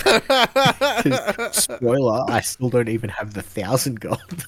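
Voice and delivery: giggling at his own unpaid debt; laughing. Real, not acted. Laughing to his cohost about owing gold.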